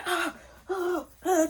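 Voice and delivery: high-pitched straining noises; struggling gasps. Retold or imitated. Holding him while reaching to unlock the door, straining gasps. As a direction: act out reaching hard while pinned. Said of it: "I'm struggling".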